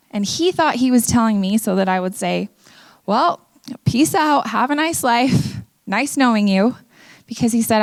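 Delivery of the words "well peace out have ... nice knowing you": drawn-out, higher-pitched casual brush-off; mock breezy farewell. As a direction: lightly act out a slow, airy goodbye. Imagined breezy goodbye to boyfriend.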